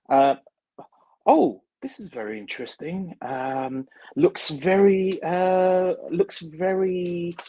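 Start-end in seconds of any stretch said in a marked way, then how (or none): 1.2-7.4 imitating a posh American, lightly; a touch of posh American, drawn-out and pondering; posh American accent. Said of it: "quite a posh American, uh, accent voice".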